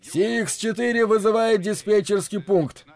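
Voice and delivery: high-pitched pilot calling the tower; pilot radio call. Acted. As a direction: call in over the radio, clipped and urgent. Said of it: "а вот и голос Хопа".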